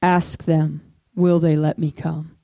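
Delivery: low, firm, measured voice of God; internal voice of the Lord. Retold or imitated. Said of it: "internal voice of the Lord".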